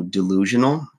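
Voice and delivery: ordinary talk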